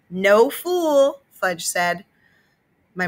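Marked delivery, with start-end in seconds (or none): 0.1-1.2 put-on high little-boy voice; cheerful small child; toddler voice. A narrator's reading. Fudge answering mom, high toddler voice.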